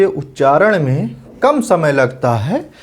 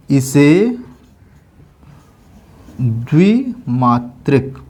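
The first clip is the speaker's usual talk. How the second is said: slow dictation; 2 semitones lower, slower than usual. Shown as a demonstration. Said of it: "इसमें एक चीज़ और note कर लीजिए".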